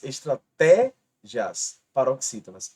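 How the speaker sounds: "estratégias" slow, stress on "té"; slow emphasis. Shown as a demonstration. Teacher to exam students, "estratégias" slow and stressed. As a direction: lean into "estratégias", slowly. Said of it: "Ambas paroxítonas".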